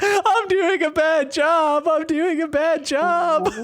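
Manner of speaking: put-on very high, weepy, tearful crying. Retelling walking to the bathroom with mom steadying them: imitating own crying. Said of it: "I'm crying like".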